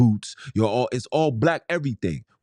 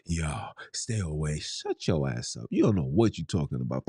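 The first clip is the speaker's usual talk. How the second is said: imitating street dudes; 7 semitones lower, 6 dB quieter than usual. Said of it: "when I see the niggas on that type of time".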